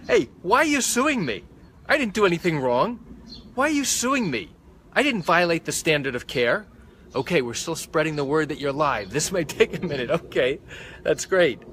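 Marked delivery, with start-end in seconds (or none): 0.1-6.7 indignant doctor. Retold or imitated. Doctor to the patient suing him, indignant and high. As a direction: whine it like a doctor wrongly accused. Doctor voiced protesting the lawsuit.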